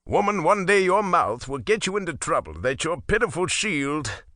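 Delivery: mildly pompous warning; a hint of a blustering husband. Husband warns his wife, lightly pompous. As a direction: puff up the threat lightly. Mjolnir voiced.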